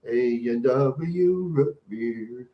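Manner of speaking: "A and W root beer." stretched out very slowly; slow savoring. Pretend. Dreamily savoring the root beer for the chat, very slow.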